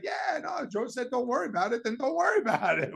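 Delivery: breezy dad. Retold or imitated. Son mimics his father telling him to trust Joe, hammed-up. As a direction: play the dad waving all worry away with a big yell. Dad's breezy retort, acted.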